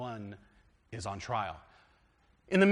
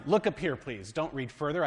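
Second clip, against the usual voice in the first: plain call. Shown as a demonstration. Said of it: "Now I have to do like my students".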